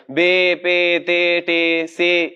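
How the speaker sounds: بے پے تے ٹے سے in Urdu style, not Arabic; Urdu letter names. Shown as a demonstration. Teacher shows the wrong Urdu way to students. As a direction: recite بے پے تے ٹے سے like Urdu. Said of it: "اس طرح کر کے نہیں".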